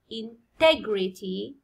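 integrity drawn out slowly as in-TEG-rity; slow integrity, leaning on TEG; stressed syllable demo. Shown as a demonstration. Teacher showing where stress falls, slow in-TEG-rity. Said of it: "هنا stress يجي على".

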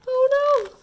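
high loud pretend dismay; hammed-up surprise; mock oh no. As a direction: gasp it out for the kids. Bug stuck in shirt.

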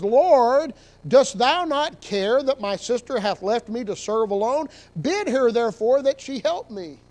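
loud, pleading opening on Lord; complaining plea. Acted. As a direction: reproach the Lord about a lazy sister. Martha complaining to Jesus.

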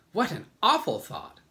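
high, loud put-on exclamation; bugs exclaiming. A narrator's reading. All the bugs react to James's mistake, high exclamation. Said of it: "they said".

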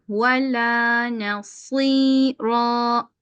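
slow drawn-out chanted recitation; Quran recitation. Shown as a demonstration. Teacher reciting the verse for students. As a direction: chant each vowel long and even. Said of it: "teacher recites Quran verse".

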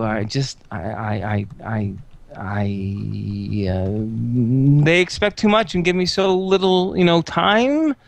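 low, halting, stammering; dejected nerd. Acted. August confessing to Mila, low and stammering. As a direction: stammer it out, deflated. August admits he'd quit.

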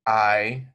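"I" glided slowly from open to close; diphthong demo. Shown as a demonstration. Teacher modeling the diphthong, slow and clear. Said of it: "you have to open your mouth".

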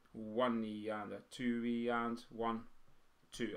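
slow, even beat count; counting out rhythm. Shown as a demonstration. Teacher counting the written notes for drummers, counting out rhythm. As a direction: count each subdivision steadily and slowly. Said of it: "So instead of just one".

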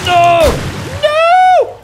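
very high, loud cry of no; anguished shout. Real, not acted. Player seeing his base wrecked, anguished high shout. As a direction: scream it in dismay. Disaster while he was away.

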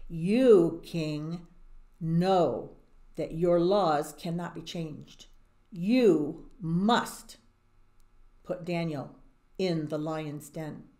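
men forcing the king to punish Daniel; stern demand. Acted. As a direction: lay down the law to the king, slowly.

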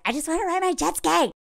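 a hint of a giddy guy dreaming of jet skis; lightly voiced carefree Jeremy. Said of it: "he's all like".

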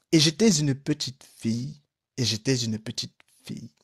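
solemn chant-like repetition fading to a hush. Acted. Nun after the blood ritual, solemn and fading. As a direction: intone it like a ritual, dying away. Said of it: "avec le même accent solennel".

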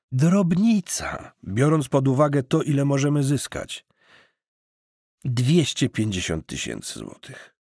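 eager cousin pitching. Acted. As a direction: sell the dream with easy confidence.

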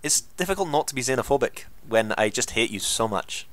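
hesitant go at a Scottish accent; Scottish accent attempt. Shown as a demonstration. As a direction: do your best imitation Scottish accent. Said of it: "do your best Scottish accent".

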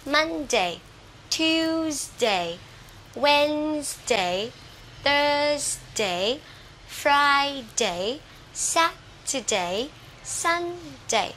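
each day from "Monday" to "Sunday" slowly, first syllable held high; first-syllable stress. Shown as a demonstration. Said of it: "dấu nhấn đều là vào âm đầu tiên". (đọc từ "Monday" đến "Sunday", nhấn âm đầu)

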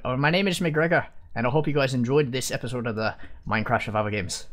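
light attempt at an Irish accent; a bit of Irish accent for the outro. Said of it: "try and do it in an Irish accent".

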